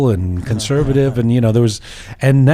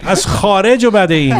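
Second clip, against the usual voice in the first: retold yell; 5 semitones higher, much faster than usual. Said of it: "screaming across the garage".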